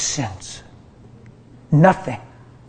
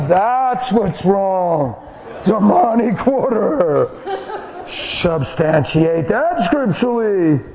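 laughing mockery; 3 semitones higher, much slower than usual. Real, not acted. Laughing mock of critics.

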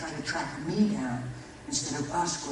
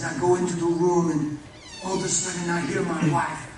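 excited retelling; 4 semitones higher, 8 dB louder than usual. Retold or imitated. Father retells hearing wife scream.

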